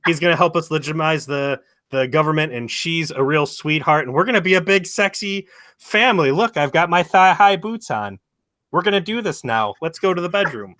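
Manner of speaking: high, loud, hammed-up come-on voice; mock seductive wife. Old wife voiced by teller.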